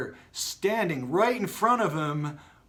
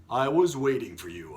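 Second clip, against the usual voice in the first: booming; 2 semitones lower than usual. Acted. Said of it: "a voice boomed".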